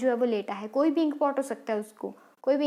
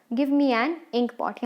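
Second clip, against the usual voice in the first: slow, word by word, as if for notes; slow dictation; much slower than usual. Shown as a demonstration. Teacher dictating the example to students, slow and deliberate. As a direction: dictate it slowly so students can write. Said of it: "example".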